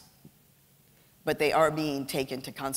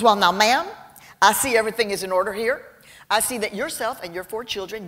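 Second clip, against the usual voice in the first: imitating a drawling Texan officer, higher; Texan accent; 4 semitones higher than usual. Immigration agent sizing up the mom, in a Texan accent. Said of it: "I'm about to imitate a Texan's accent".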